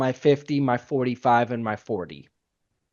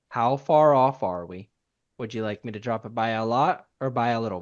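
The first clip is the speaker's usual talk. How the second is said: very calmly; 3 semitones lower than usual. Shown as a demonstration. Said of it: "Just say very calmly".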